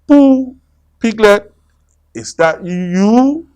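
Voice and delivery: high, loud nervous call; scared rabbit calling for friends. Acted. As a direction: call out into the mist, frightened.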